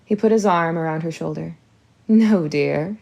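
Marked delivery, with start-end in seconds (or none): 2.1-3.0 pouting. Acted. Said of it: "she pouted again".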